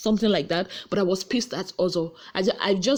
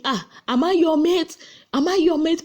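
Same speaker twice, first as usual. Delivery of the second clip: mock indignant challenge; 8 semitones higher, 3 dB louder than usual. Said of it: "you tell me".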